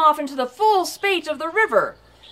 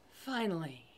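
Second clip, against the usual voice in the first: fading finally; 7 semitones lower, 16 dB quieter than usual. A narrator's reading. Repeated word, growing fainter.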